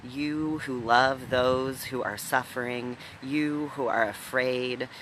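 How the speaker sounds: measured, emphatic roll call, each "you" leaned on; solemn litany address. Real, not acted. Minister calling the hurting and afraid to stillness, solemn litany. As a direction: call each group in by turn, steady and strong.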